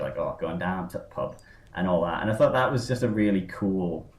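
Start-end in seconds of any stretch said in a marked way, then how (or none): 0.2-1.4 dropping into imitated Yorkshire; low, casual Yorkshire accent; Gaius Baltar. Podcaster mimics the character slipping into his accent, Yorkshire. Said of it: "like, Yorkshire".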